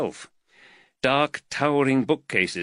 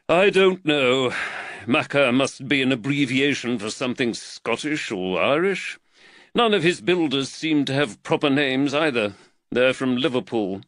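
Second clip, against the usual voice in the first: slightly raised, earnest magistrate voice; the worried magistrate, lightly voiced a touch higher; voice of Reed; 5 semitones higher, 3 dB louder than usual. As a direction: magistrate fretting over costs, lightly voiced.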